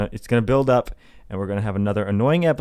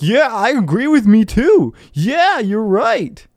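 high, louder put-on voice; exaggerated high-pitched chorus of yes-men; mock agreement; 9 semitones higher, 4 dB louder, slower than usual. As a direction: parody eager self-congratulation. Mimics self-agreeing online crowd.

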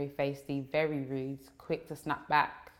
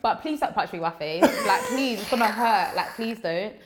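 laughing plea; 4 semitones higher, 3 dB louder than usual. Pretend. Mock begging not to be hit.

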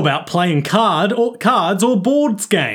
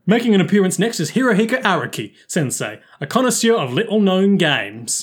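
YouTuber voice; 2 semitones higher than usual. Acted. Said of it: "my YouTuber voice".

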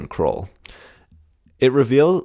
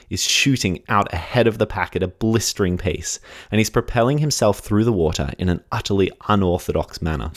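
measured, dramatic scene-setting narration; story narration. Acted. Podcast host sets the scene at the pool, story narration. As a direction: tell it like a suspenseful true story. Reads scripted race story.

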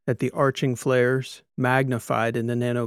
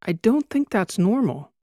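higher, worried tourist pressing the point; a little more urgency; 9 semitones higher than usual. A narrator's reading. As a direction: push the question with growing alarm. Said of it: "she stated with a little more urgency".

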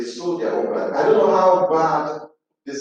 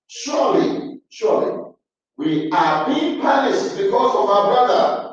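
dismayed realisation; 7 semitones higher than usual. Acted. Brothers' guilty realisation, preacher voicing.

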